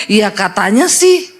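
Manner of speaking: meniru jawaban ogah-ogahan, lambat; jawaban setengah hati. Retold or imitated. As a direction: menirukan orang Kristen ragu-ragu. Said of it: "Jangan jadi Kristen katanya". (ya katanya sih, nada malas dan lambat)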